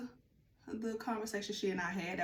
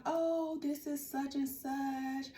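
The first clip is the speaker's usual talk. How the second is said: mock crying mother; 5 semitones higher, slower than usual. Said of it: "she was crying and was like".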